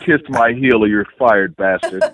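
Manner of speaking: slow, loud demand with a sneer; mock bossy boss. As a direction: play the tyrant boss, drawing it out.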